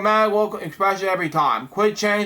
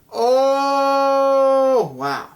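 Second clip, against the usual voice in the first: hammed-up horrified oh; shocked gasp; 6 semitones higher than usual. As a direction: gasp at the terrible eyes. Seeing the monster's eyes.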